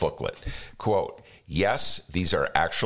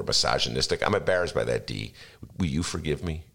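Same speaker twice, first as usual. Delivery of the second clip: mock Bloomberg apology; 8 semitones lower than usual. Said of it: "What are the chances he's gonna say all that?".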